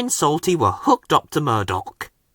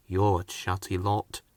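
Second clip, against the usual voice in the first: much lower and softer, low rumbling voice; quietly; 7 semitones lower, 10 dB quieter than usual. Acted. Murdoch quietly brushing off the chatty engines. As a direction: say it quietly, unimpressed. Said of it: "said Murdoch quietly".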